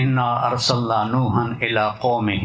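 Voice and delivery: slow chanted Arabic recitation; Quranic recitation. Retold or imitated. Imam leading prayer recites slowly to the congregation.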